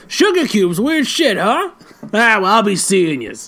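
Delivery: a hint of a New York cop, slow; gruff detective. Detective leaving with a threat, mock New York cop. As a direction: sneer out a mocking goodbye. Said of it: "And then he goes".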